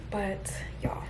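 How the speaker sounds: whispering. Real, not acted. Hushed aside while crew arrives.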